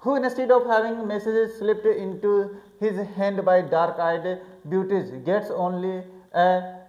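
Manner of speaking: slow, deliberate reading of the text aloud; careful classroom read-aloud; slow English reading. A narrator's reading. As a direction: read each English phrase slowly for the class. Slow read-aloud of novel passage.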